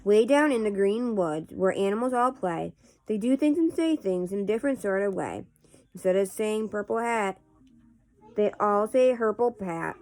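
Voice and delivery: casual read-aloud of nonsense verse; poetry reading. Acted. Host reading Runny Babbitt poems to viewers, measured poetry reading. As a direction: read silly verse line by line, with pauses.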